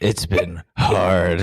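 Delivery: very slow, drawn-out gloom; mock mopey. Friend mocking the ex's sad reply, dragged out. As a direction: drag it out mournfully.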